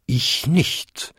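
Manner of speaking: lightly voiced second bell, lifting at the end; a touch of ringing bell in the denial; short bell-like denial with rising end; bumming bell. A narrator's reading. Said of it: "bummte die zweitgrößte".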